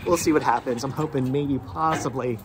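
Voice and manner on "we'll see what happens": doubtful. Retold or imitated. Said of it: "I'm like".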